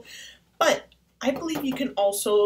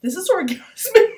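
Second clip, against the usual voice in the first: much higher and louder, rising; ecstatic; 8 semitones higher, 10 dB louder than usual. Real, not acted. Raving to viewers about the markers, ecstatic. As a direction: gush with delight.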